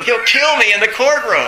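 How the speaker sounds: loud, high, half-laughed mock terror; telling the scary line through laughter; laughing through the quote. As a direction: laugh while acting his fear. Retold terrified lawyer.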